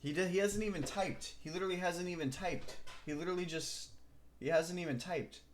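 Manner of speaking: high, incredulous complaint. Real, not acted. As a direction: raise the pitch in disbelief.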